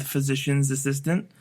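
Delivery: "physician's assistant" with an added S; mistaken job title. Shown as a demonstration. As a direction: put a possessive S on the end of "physician's". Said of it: "There's no S".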